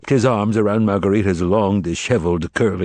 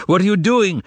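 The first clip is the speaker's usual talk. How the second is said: much higher, anguished scream; agonized scream; 10 semitones higher, 3 dB louder than usual. A narrator's reading. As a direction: scream it in horror. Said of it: "screamed the master in agony".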